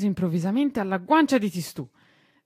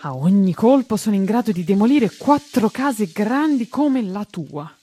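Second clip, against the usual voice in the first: loud and higher, slowing down on the last words; boastful shout; 3 semitones higher, 8 dB louder than usual. A narrator's reading. Bombardino boasts about his cannons. (vanto gridato, più acuto, rallentando alla fine)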